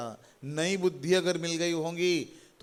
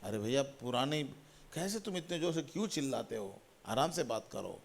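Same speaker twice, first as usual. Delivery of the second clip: softly voiced neighbour remonstrating; hushed, mildly exasperated neighbour; neighbour's mild complaint; 3 semitones lower, 9 dB quieter than usual. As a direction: plead quietly for calmer talk. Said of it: "पड़ोस के लोगों को".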